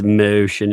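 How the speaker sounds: put-on vowel in "motion"; odd pronunciation. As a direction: say "motion" with a deliberately skewed vowel. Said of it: "Randy would speak like that".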